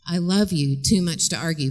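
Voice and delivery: low, measured, unmoved; calm mother. Acted. Mother to her wailing daughter, calm and steady. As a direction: answer the wailing without rising to it. Acted mother answering escalated teen.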